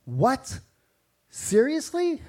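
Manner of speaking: mock outrage, what on earth; incredulous. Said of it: "of saying".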